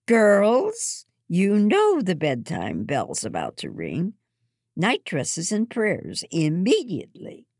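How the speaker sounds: put-on high, loud call to the children. A narrator's reading. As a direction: call the girls to bed. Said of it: "Mother calls".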